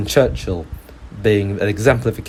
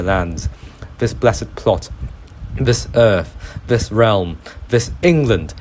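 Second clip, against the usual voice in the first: put-on measured verse recital in an adopted British accent; Shakespeare recitation. Quotes Richard the Second's speech to sum up the argument, Shakespeare recitation. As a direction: recite it as patriotic verse, pausing between phrases. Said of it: "I shall quote William Shakespeare's Richard the Third".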